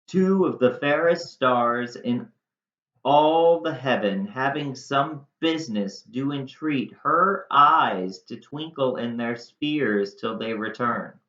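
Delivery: lifted, declaimed Shakespeare; dramatic verse reading. Acted. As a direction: read the stars speech like an actor. Reads Shakespeare verse aloud.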